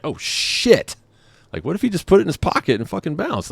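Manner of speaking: high, fast panicked worry. Retold or imitated. Groom fearing the waiter stole the ring, high fast panic. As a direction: spiral into a panic.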